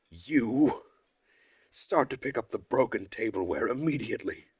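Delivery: a hint of a leader about to explode; understated strict counselor; Olga's scolding. Leader orders Uliana.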